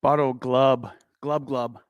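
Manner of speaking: gurgling words through chewing gum; mouth full. Real, not acted. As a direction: talk with gum in your mouth. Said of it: "you're chewing some gum".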